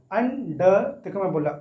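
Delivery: "under" in two separated syllables. Shown as a demonstration. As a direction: break "under" apart for counting. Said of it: "अलग-अलग तोड़कर". ("under" को तोड़कर बोलें)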